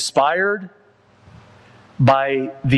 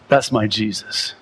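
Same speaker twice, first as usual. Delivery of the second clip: tender, lower; 5 semitones lower than usual. Shown as a demonstration. Preacher repeating his faith to the congregation, tender and low. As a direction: say "That's my Jesus" low and tender, like a confession.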